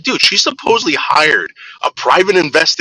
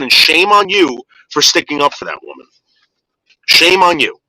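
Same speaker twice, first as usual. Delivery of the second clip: raised, higher, indignant scolding; heated rant; 5 semitones higher than usual. Real, not acted. Telling Carolyn off for defending Sherry, a heated scold. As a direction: let the outrage build as you tell her off.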